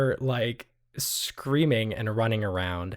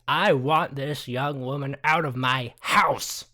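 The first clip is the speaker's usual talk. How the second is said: Adelaide's demand; 3 semitones higher, 3 dB louder, slower than usual. Acted. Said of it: "Adelaide actually chimes in and says".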